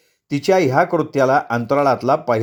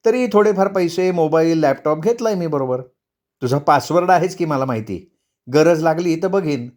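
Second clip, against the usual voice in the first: lightly voiced wife, slightly raised pitch; dismissive wife; 3 semitones higher than usual. Wife turns down husband's ATM card, breezily dismissive. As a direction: wave off the husband's offer.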